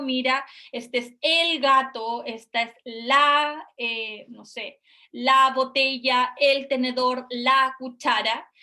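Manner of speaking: put-on name each toy clearly and slowly, like to a toddler; talking to a child. Shown as a demonstration. Therapist naming toys slowly and clearly for a child.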